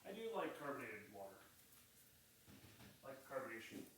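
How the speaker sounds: talking while chewing; words round a bite of food; mouth full. Real, not acted. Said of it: "hear me talk with my mouth full".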